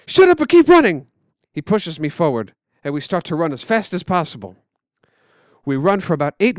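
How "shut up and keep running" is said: loud, high angry yell. Acted. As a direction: snap at your little brother to shut up. Brother cuts him off.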